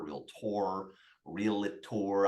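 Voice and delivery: "realtor" sounded out carefully, syllable by syllable; trying out pronunciations. Real, not acted. Guest hunting for the right way to say the word, careful sounding-out. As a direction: feel your way through "realtor", stressing "tor". Host tries the word several ways.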